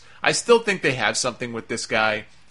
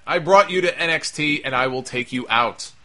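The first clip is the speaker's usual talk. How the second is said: put-on Rusev accent; 2 semitones higher than usual. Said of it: "why am I doing the Rusev accent".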